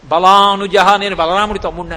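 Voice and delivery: proud declaration. Acted. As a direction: announce it proudly. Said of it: "అన్నాడు".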